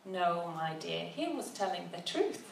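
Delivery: put-on tender reassurance from a wise old woman; gentle tone. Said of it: "with a gentle tone in her voice".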